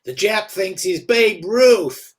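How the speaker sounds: loud, slow jeer from the stands; mock him loudly. Heckler taunting again.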